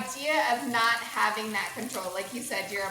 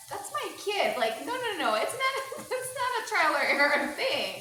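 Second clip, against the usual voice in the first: emphatic no; 5 semitones higher than usual. Real, not acted. Emphatic denial, laughing.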